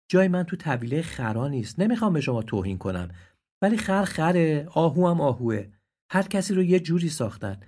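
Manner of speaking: pleading deer. Acted. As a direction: beg them to stop, with dignity. (آهوی ملتمس و دلگیر)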